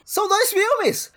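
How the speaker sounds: high, slow outraged cry. Real, not acted. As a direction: spell it out in outrage. Outraged agreement.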